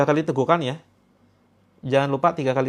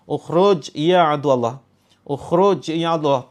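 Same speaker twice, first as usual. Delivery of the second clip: stern command; 5 dB louder than usual. Shown as a demonstration.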